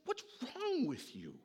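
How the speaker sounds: put-on high, stretched yell at the kids; exasperated driver yelling back at the kids; shouting at kids. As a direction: shout it over the whole van. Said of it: "I'm shouting it at many decibels".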